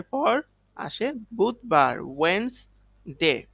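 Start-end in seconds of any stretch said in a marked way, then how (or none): 2.0-3.4 ওয়েডনেসডে slowly as "Wens... day", silent first d; careful pronunciation. Shown as a demonstration. Teacher showing pupils how to say ওয়েডনেসডে, slowly as "wens-day". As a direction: split ওয়েডনেসডে into "wens" and "day", pausing between. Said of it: "উচ্চারণ করব ওয়েডনেসডে".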